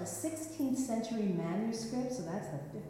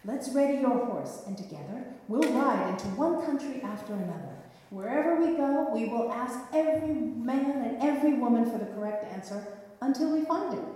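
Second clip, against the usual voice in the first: loud, higher rallying call; eager knight; 3 semitones higher, 5 dB louder than usual. Acted. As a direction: rouse the king to ride out. Nephew rallies the king.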